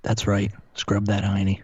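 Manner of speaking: low, sultry, teasing voice; sultry narrator. Pretend. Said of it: "my low, sultry voice".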